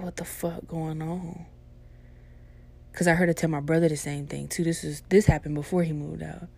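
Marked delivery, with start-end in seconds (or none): 0.0-1.5 soft, slow hushed worry. Retold or imitated. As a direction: say it scared under your breath. Scared in room at night.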